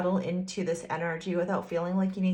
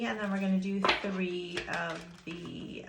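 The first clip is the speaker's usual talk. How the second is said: whispering; 5 dB quieter than usual. Real, not acted. Whispering aside while pulling cards.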